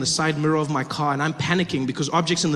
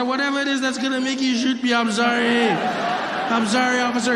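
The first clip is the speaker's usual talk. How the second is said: pleading apology; 5 semitones higher than usual. Retold or imitated. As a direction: plead with the officer, stretch sorry. Begging the officer.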